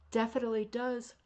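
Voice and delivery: stifling a yawn; talking through a yawn. Real, not acted. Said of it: "Why am I yawning?".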